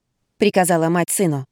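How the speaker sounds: usual speaking voice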